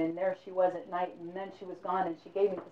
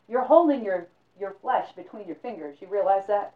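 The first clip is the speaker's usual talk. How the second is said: urgent insistence; 2 semitones higher, 7 dB louder than usual. Acted. Old man insists urgently.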